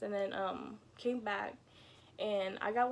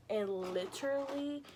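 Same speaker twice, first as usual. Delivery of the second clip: whisper; 4 dB louder, slower than usual. Real, not acted. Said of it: "unvoiced whisper".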